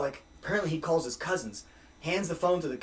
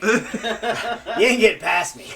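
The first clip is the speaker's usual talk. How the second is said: tough doorman; 5 semitones higher, 7 dB louder, much slower than usual. Retold or imitated. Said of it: "he's just like".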